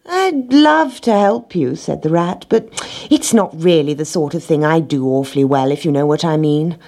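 a hint of a lazy rat. Rat declines to help.

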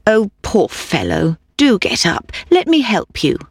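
put-on a touch of kindness to the boy; kind merchant. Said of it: "the kind Mister Fitzwarren".

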